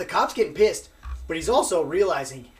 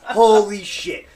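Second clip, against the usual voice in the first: amazed exclaim; 5 semitones higher, 11 dB louder, much slower than usual. Retold or imitated. Amazed reaction in retold story.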